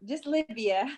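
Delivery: Livia slowly, with no O in front; clarifying the name. Shown as a demonstration. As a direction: spell out by ear: just Livia, starting on L. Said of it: "No O".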